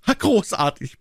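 lightly roared king's cheer; a hint of a booming roar. A narrator's reading. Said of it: "brüllte der König".

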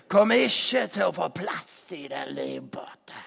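sudden whispered aside. Acted. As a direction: hush it right down. Whispered inside the warning.

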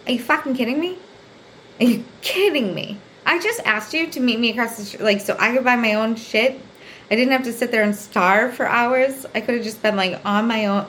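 mildly indignant retelling; retold anger. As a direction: protest in mock disbelief. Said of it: "I was so mad".

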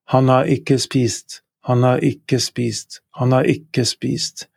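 "Han har ikke spist" said slowly and clearly; teacher models "Han har ikke spist"; Norwegian model sentence. Shown as a demonstration. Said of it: "He has not eaten".

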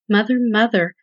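a lightly voiced chick calling in alarm. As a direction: call for mom, half frightened. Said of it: "Little said with alarm".

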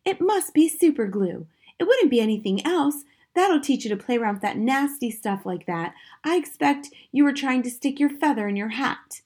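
high, loud, know-it-all wife; scolding wife. A narrator's reading. Wife to husband about the superglue, scolding.

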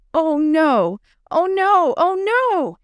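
horrified cry building up; panicked. Acted. Discovers broken hothouse.

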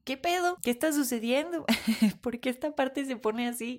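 alarmed high voice; startled. Retold or imitated. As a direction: ask it in rising alarm. Retells own shaky panic.

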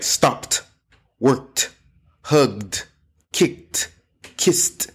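each of "stopped, worked, hugged, kicked, kissed" in one syllable, separately; soft -ed endings. Shown as a demonstration. Teacher modelling word endings, soft T or D. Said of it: "like a soft T or a soft D".

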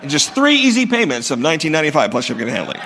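fast infomercial pitch with a laugh; home shopping host. Pretend. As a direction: rattle it off like a TV ad. Infomercial tag on sales pitch.

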